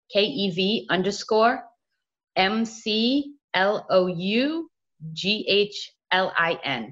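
slow, separated letters in small groups; spelling out. Real, not acted. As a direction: spell it out slowly for listeners. Spelling a handle for listeners.

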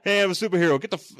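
mock superhero. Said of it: "acting out superhero".

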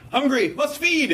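high, slow put-on machine voice; slow, high mock-monster demand; hungry machine. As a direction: play a ravenous machine demanding food. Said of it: "then the machine's like".

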